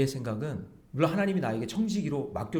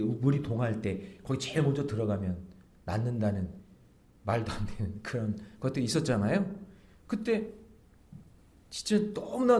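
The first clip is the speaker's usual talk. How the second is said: ordinary delivery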